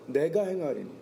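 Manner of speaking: 내가 set off as the emphatic subject; stress on 내가. Shown as a demonstration. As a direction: put the weight on 내가, then fall away. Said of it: "주어가 자신이길".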